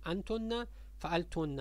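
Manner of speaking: انتن فعلتن said slowly with a held double n; slow geminated n in انتن فعلتن; doubled nun. Shown as a demonstration. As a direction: lean on the n: "antunna, fa'altunna". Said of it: "ببینید همشون نون مشدد داره".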